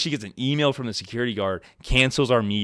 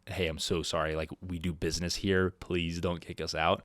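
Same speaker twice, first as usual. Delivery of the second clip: soft, low plea; pleading; 3 semitones lower, 6 dB quieter than usual. Retold or imitated. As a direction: gently beg not to be kicked out. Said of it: "he was still pretty upset".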